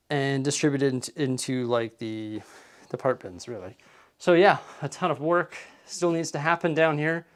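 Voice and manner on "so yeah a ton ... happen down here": a bit out of breath; breathless after crawling under tables. Real, not acted. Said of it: "I'm out of breath from crawling".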